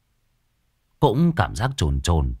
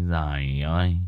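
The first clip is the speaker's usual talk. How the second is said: straining to shout; 6 semitones higher than usual. Acted. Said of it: "thì gân cổ".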